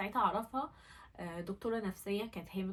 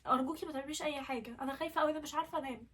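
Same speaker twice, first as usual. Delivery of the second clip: put-on higher, childlike fearful plea; mildly acted fear, pitched up; retold frightened crying; 5 semitones higher, faster than usual. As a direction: imitate a scared sister pleading. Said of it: "وقعدت ترعش وقعدت تعيط".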